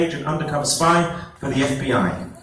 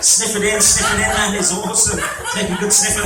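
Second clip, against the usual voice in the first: excited urging; 5 semitones higher than usual. Acted. Hypnotist urging volunteers to sniff, excited. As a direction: egg them on to sniff.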